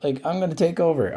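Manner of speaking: a hint of an annoyed box complaining; grumpy monster box. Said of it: "my monster box is mad".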